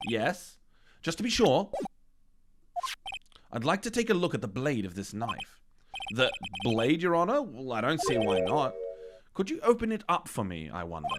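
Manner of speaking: lightly voiced courtroom characters; deliberate sinister police chief; character voices.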